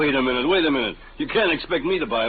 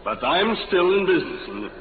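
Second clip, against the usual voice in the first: heated refusal; 7 semitones higher than usual. Acted. Salesman refuses the robots, heated.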